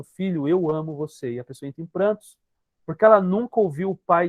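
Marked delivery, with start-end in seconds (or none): 0.0-1.3 lightly voiced tender parent. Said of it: "olhando nos seus olhos dizendo".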